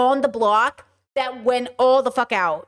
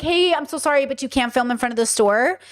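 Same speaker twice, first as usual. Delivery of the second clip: polite apology. Retold or imitated. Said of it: "Or like".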